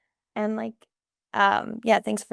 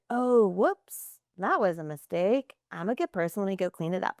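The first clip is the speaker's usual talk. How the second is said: calm reassurance. Pretend. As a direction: shrug off the spill gently. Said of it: "Or am I being like".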